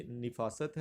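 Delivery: نفاست as "ni-FAA-sat", short i first; pronunciation option. Shown as a demonstration. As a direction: say نفاست slowly with "ni" at the start. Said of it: "تو یہ لفظ کیا ہے".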